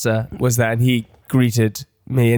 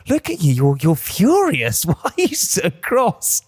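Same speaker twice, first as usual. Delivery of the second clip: mock concern; 4 semitones higher, slower than usual. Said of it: "I go".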